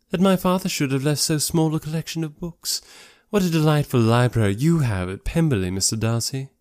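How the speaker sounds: lightly voiced admiring society lady; a touch high, flattering; Miss Bingley. Lady praising Darcy's library at Pemberley, admiring.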